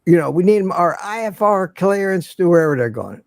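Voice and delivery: imitated Southern pilot, taking his time; lightly voiced Southern drawl; Southern pilot asking for clearance; slow Southern drawl. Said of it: "And real slow".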